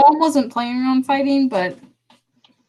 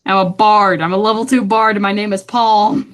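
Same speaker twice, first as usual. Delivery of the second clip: louder in-character repeat; emphatic restating; 6 dB louder than usual. Acted. Palm repeating details for the ticketmaster, loud emphatic voice. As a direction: restate it firmly, with more volume. Repeats answer after being asked what.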